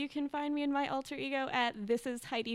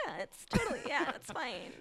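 pressured people-pleaser; 5 dB quieter than usual. Acted. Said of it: "The one who feels pressured to say yes".

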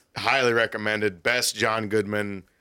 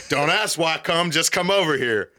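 mock stern order; 6 semitones higher, 3 dB louder than usual. Father orders son over.

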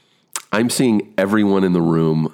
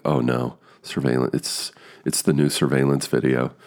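mock dread; 4 semitones lower than usual. Actor spotting a hard word in a script, dreading it. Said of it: "that fucks me up".

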